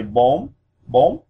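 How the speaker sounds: "bom" swept upward in pitch, ending on M; rising tone. Shown as a demonstration. Teacher demonstrating Vietnamese four, "bom" with rising tone. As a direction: raise the voice through "bom". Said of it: "raise your voice as you say this".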